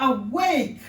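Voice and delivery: "Awake" called out loud, falling; emphatic demo. Shown as a demonstration. Teacher modelling the word, loud and falling. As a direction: ring out "Awake" with energy. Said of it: "how do you want to, awake".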